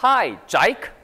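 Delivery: imitated Aussie greeting, "Jake" as "Jike"; Australian "ai" vowel in "Jake"; Australian accent. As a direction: greet like an Australian friend, rising. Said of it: "호주 친구들이 저한테".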